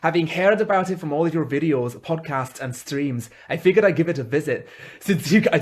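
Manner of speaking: put-on Scottish reading voice; amateur Scottish accent. Shown as a demonstration. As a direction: attempt a Scottish accent while reading a letter. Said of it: "do it in Scottish".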